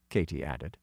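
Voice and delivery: ordinary delivery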